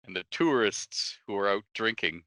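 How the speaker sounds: ordinary talk, nothing marked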